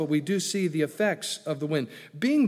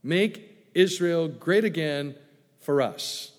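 mocking their slogan; 4 dB louder, slower than usual. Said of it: "That was their theology".

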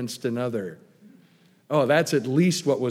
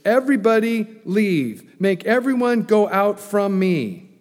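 loud command; 6 semitones higher, 6 dB louder than usual. Retold or imitated. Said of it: "Joseph yells out in Egyptian".

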